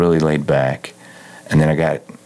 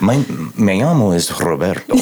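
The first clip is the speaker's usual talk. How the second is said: put-on playful, overdone Spanish accent; jokey gringo Spanish accent; mock Spanish. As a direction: show off bad Spanish with a rolled R. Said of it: "I can speak perfect Spanish".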